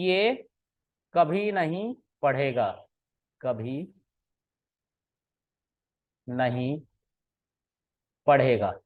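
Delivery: "ये" alone, then "कभी नहीं पढ़ेगा" slow, then "कभी", "नहीं", "पढ़ेगा" one by one with long pauses; a hint of anger, spelled out word by word; angry slow quote. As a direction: mildly imitate an angry uncle, spacing each word. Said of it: "क्योंकि गुस्से में थे वो".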